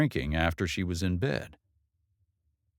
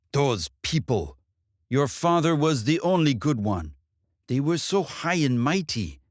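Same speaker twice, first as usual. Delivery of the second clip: spitting bitterness; 6 semitones higher than usual. Acted. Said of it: "Nearly spitting out her answer".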